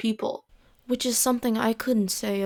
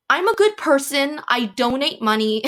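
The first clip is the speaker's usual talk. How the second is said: mock-pretentious, pitched up at the start; higher, lightly hammed-up boast; mocking self-praise; 4 semitones higher, 3 dB louder than usual. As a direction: imitate someone proudly praising themselves.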